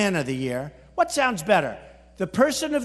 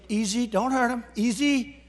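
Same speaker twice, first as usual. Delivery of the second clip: soothing plea; 2 semitones higher than usual. Retold or imitated. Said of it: "So I say".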